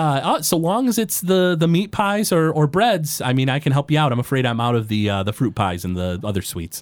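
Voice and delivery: a small forest gnome greeting a customer; high-pitched gnome shopkeeper; gnome baker. Acted. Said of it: "She says".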